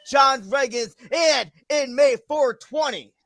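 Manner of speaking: emphatic match announcement, pausing between names; wrestling announcer. Acted. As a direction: announce the title match to the crowd. Announces the imaginary next match.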